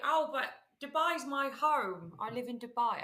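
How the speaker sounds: slow, lightly put-on Arabic-style accent imitating Lindsay; mock Lindsay's faux Dubai accent, unhurried. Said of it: "I don't know why I'm doing that accent for Lindsay".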